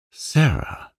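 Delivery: a high stunned cry of her name; shocked, the name breaks upward; man aghast at her words, voice jumps high. A narrator's reading. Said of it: "he said aghast".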